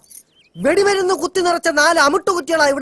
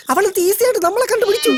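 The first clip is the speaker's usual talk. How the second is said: frightened whimper; 6 semitones higher, faster than usual. Acted. Ghost has found them, panic.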